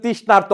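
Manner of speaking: তৃষ্ণার্ত with a long "aar" before the t; demonstrated pronunciation. Shown as a demonstration. Teacher has students pronounce it themselves, তৃষ্ণার্ত with clear r. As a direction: sound out the r in তৃষ্ণার্ত. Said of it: "নিজে নিজে উচ্চারণ করেন".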